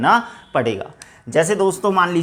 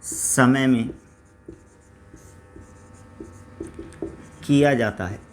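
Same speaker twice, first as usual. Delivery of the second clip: slow, lower dictation with long pauses; 4 semitones lower, 3 dB quieter than usual. Acted. Teacher dictating a definition to students, measured dictation. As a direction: dictate it piece by piece.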